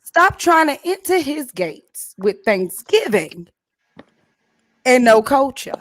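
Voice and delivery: slow, emphatic reading of the title. Shown as a demonstration. Host reads out the month's theme, slow and emphatic. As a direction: announce the theme slowly, word by word. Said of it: "I entitled it for this month".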